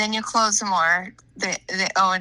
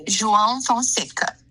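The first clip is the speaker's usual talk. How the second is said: "João Fonseca" run together more quickly; a little faster. Shown as a demonstration. Teacher repeats the name on the student's request, faster. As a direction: say "João Fonseca" at a more natural, connected speed. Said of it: "Can you say it a little bit faster?".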